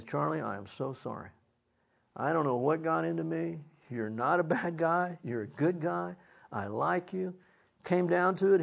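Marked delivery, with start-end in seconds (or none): 0.0-7.3 soft, subdued confession; retold contrite apology. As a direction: apologize humbly, a little quietly. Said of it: "he was just jealous".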